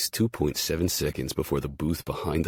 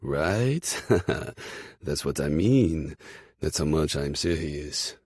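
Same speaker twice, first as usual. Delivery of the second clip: put-on French-Canadian accent; slower than usual. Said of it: "in that French-Canadian accent".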